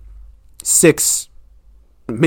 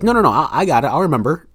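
imitated insistence; 4 semitones higher, faster than usual. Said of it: "And then she's like".

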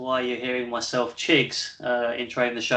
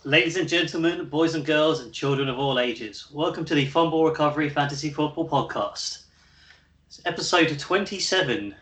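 big showman welcome, a touch higher; ringmaster; 4 semitones higher than usual. Acted. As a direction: announce it like a circus ringmaster. Fourth take of circus-style intro.

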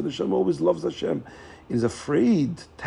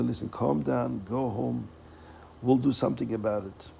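calm reassurance; 5 dB quieter than usual. Acted. Rebbe calms the crying mother.

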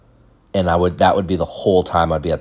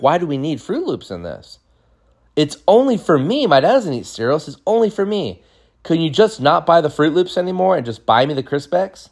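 put-on whiny pleading kid; 9 semitones higher than usual. Kid pleading about Froot Loops.

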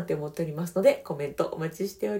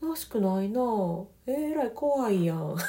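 higher, light, slowing to an easy close; soft gentle reply; 4 semitones higher than usual. Shown as a demonstration. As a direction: soften the blow with calm concern. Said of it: "ふわっと返す".

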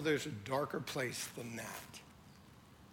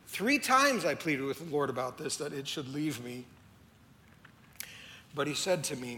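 scripture reading. Acted. Reads scripture aloud.

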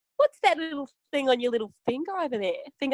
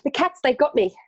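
anguished cry; 3 semitones higher, 5 dB louder than usual. Acted. Wailing about the tiger attack.

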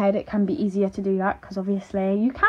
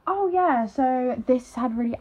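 interview answer; 4 semitones higher, slower than usual. Shown as a demonstration. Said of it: "I'm like".

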